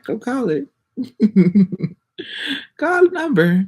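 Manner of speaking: very high teasing voice with a giggle; mock squeak. Daring viewers to call the fake number, high teasing giggle. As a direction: egg them on in a high silly voice.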